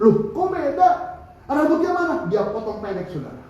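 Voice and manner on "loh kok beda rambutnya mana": higher, startled double take; surprised. Retold or imitated. Preacher surprised at the man's new look, startled. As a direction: react as if you barely recognise him.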